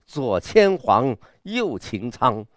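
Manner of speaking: slow, broad and imposing; grand recital. Shown as a demonstration. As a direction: paint a grand hunting array slowly. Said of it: "阵势多大呀". (有阵势地慢慢朗诵)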